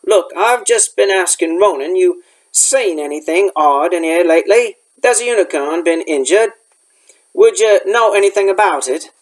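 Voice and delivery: lightly voiced rustic gamekeeper; a hint of country dialect, asking for news; Hagrid.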